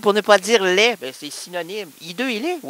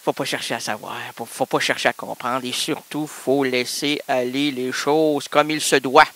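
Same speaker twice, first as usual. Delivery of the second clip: mock sage voice; 9 semitones lower than usual. Mock philosophical maxim.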